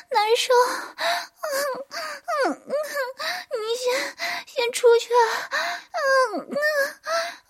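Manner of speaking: high breathy moans between words; moaning. Acted. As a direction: moan each word out, breathless. Heroine voiced during sex scene.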